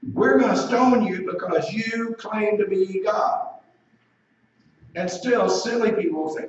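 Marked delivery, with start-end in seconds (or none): 0.1-3.5 slow, higher-pitched indictment; drawn-out, emphatic accusation; accusing declaration. Acted. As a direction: lay out the charge slowly and firmly. Voices the accusers' threat.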